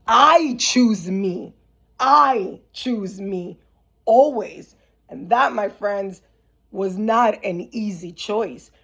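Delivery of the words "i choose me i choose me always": slow, emphatic self-affirmation; emphatic declaration. Retold or imitated. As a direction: declare it slowly, weighting each word. Declares her choice to herself.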